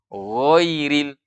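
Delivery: GHAIRIL heavy, almost GHOIRIL; suaranya O. Shown as a demonstration. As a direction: draw out GHAIRIL with a rounded first vowel. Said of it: "seakan-akan suaranya o". (GHAIRIL dibaca tebal seperti O)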